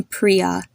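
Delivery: "Priya" with a double-E first vowel; long I in Priya. Shown as a demonstration. Teacher asking listeners to notice the name, "Priya" with long EE. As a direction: say "Priya" as PREE-ya. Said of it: "notice how I'm saying the name".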